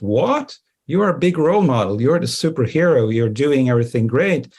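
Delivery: high-pitched, incredulous mock reaction; astonished disbelief. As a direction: play an amazed junior associate, voice jumping up then settling. Acted associates' astonished reaction to partners' confession.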